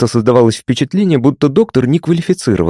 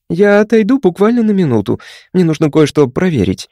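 rattled off; 7 semitones higher than usual. A narrator's reading. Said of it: "протараторила она".

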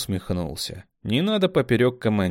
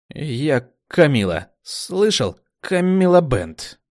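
higher, slow, insistent; proud introduction; 6 semitones higher, 5 dB louder, slower than usual. A narrator's reading. Kamila introducing herself, slow and higher. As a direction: announce your name slowly.

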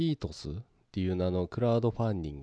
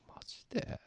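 whispering; 13 dB quieter than usual. Real, not acted.

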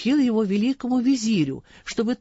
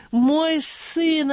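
higher, louder tearful cry; tearful outburst; 9 semitones higher, 3 dB louder than usual. A narrator's reading. Father weeping over his lost son, crying out higher and louder. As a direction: break into a tearful wail on the repeat. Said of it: "обливаясь слезами".

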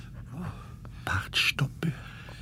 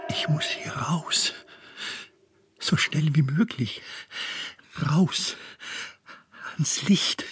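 pressing, whispered urgency; urgent whisper; 4 semitones higher than usual. Acted. Man in a black tunnel urging himself on, whispering. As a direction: whisper as if you must get out now. Inner monologue in darkness.

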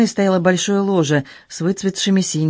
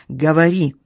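barked order. Acted. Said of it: "рявкнул".

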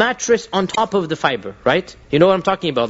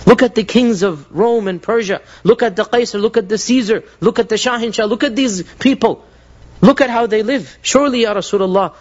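pleading while crying; 3 semitones higher than usual. Retold or imitated. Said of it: "He begins to cry".

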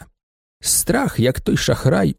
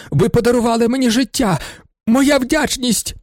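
overwhelmed gratitude; 9 semitones higher than usual. A narrator's reading. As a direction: gush with gratitude. Kneeling Marushevych thanks him. (схвильована вдячність)

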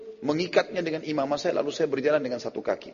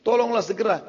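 changed, disguised voice; 8 semitones higher than usual. Retold or imitated. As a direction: fake an alarmed helper's voice, higher. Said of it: "Saya ubah lagi suara saya".

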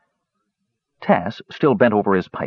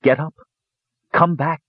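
gentle urging; 7 semitones higher than usual. A narrator's reading. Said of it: "they urged".

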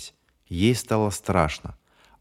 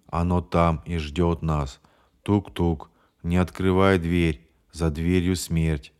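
lightly lower, slow, hollow drawl; 3 semitones lower, slower than usual. Acted. James drones that it waits for them, hollow and slow. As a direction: drag the words out as if in a trance. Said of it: "глухим голосом затянул Джеймс".

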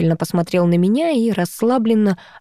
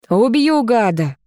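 hysterical threat; 4 semitones higher, slower than usual. Acted. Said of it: "истеричный голос Руслана".

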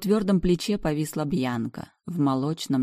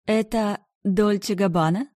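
admiring question; 6 semitones higher, 3 dB louder than usual. A narrator's reading. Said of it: "восхищённо спросила".

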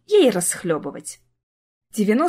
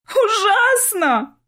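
high, slow, drawn-out sob; sobbing; 12 semitones higher, 3 dB louder, much slower than usual. A narrator's reading. Younger sister wailing over the phone, high drawn sob. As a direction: wail it through tears. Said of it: "горестно всхлипнула младшая сестра".

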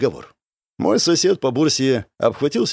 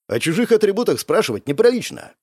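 higher echo of her scolding, rising at the end; reproving; 6 semitones higher than usual. A narrator's reading. Narrator checking the nosy girl, reproving. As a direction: check her with her own rule, pitched up. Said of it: "одёрнул я её".

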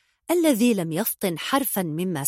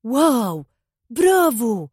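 bursting out impressed, higher and a bit louder; impressed wow; 4 semitones higher, 5 dB louder, slower than usual. A narrator's reading. Hadi clapping, dazzled by the boy's answer, impressed cheer. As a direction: cheer like you're dazzled by the kid. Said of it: "صفق هادي منبهرا".

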